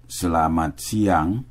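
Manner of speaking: "Selamat siang" said slowly and carefully; slow "Selamat siang" down for the learner. Shown as a demonstration. Teacher repeating the phrase slowly for students to copy. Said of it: "Wilt u me dan nazeggen?".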